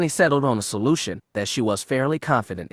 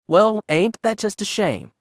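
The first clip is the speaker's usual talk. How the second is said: slow, much higher drawl; 9 semitones higher than usual. A narrator's reading. Officer drawling fake pity at the stranded pilot. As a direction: stretch it out like a leering cowboy. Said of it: "the man drawled".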